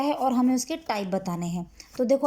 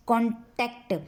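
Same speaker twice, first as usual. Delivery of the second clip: कॉन्टैक्ट with the "टैक्ट" pressed; stress on T; slower than usual. Shown as a demonstration. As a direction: lean on the T that opens the second syllable of कॉन्टैक्ट. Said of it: "टी पे कितना दबाव जा रहा है". (कॉन्टैक्ट में ट पर दबाव)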